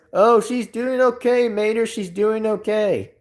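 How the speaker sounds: lightly voiced cartoon character reply; Lightning McQueen. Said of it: "when Lightning McQueen says".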